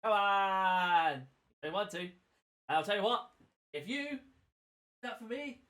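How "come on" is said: urging shout. Real, not acted. Urging the other on.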